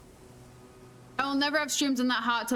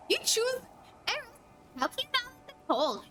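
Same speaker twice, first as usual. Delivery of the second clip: incredulous; 11 semitones higher than usual. Real, not acted. Incredulous at Eric.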